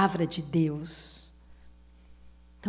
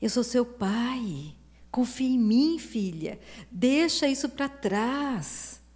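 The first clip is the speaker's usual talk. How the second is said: voicing God as father; 2 semitones higher than usual. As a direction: call her in gently, then lift it. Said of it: "Deus fala". (Deus como pai chamando a filha, voz um pouco mais aguda)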